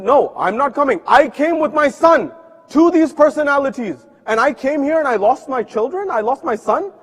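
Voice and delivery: a mother crying out her loss; pained outburst against the family; anguished refusal. Acted. Grieving mother refuses the pilgrimage.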